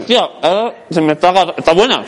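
talking through a mouthful; words round a bite of rosquilla; mouth full. Real, not acted. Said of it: "te ha cambiado la voz".

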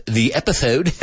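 real slip, S in "episode" turned to TH, epithode; accidental lisp. Real, not acted. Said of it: "My lisp".

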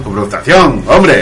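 mock Castilian. Corrects title into mock Castilian.

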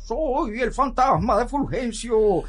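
slow, drawn-out ghost voice; lightly voiced spooky ghost. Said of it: "el abuelo Fulgencio dice".

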